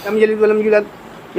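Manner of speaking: لم یلد ولم یولد gabbled, sounds not given their due; rushed wrong way. Shown as a demonstration. Teacher imitates people reciting in a hurry. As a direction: rush through it carelessly. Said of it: "بہت جلد بازی میں".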